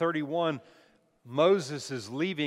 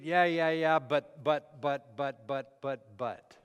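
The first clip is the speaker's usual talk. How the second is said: mock dismissive; slower than usual. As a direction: brush it off, then trail away. Acts out a distracted, dismissive reader.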